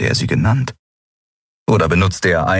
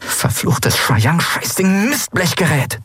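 slow, higher, hissed cursing; hissed curse; 11 semitones higher, slower than usual. Acted. Endriel hissing at the cursed armband, slow and fed up. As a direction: spit the curses at the device. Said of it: "zischte Endriel die Armschiene an".

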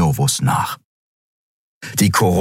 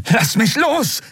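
very high, desperate demand; high panicked let-go cry; struggling Kai; slower than usual. Acted. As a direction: wrench free. Kai struggles in his grip.

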